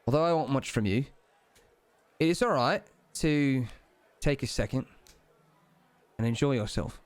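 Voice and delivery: lightly voiced Cockney deity; measured Cockney with pauses between phrases; Cockney British accent. Deity permits the player to relax, in a light Cockney accent. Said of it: "kind of Cockney British accent".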